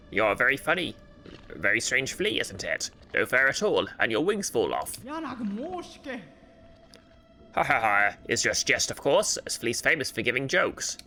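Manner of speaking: put-on joking flea master in muddled Russian-French accent. Flea master jests with odd stranger, French-Russian accent. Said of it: "I hear the Russian now".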